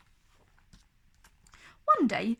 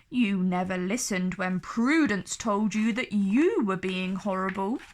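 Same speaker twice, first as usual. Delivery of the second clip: dragon voice. Acted. Dragon replies.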